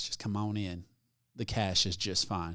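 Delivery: low, slow, hushed coaxing.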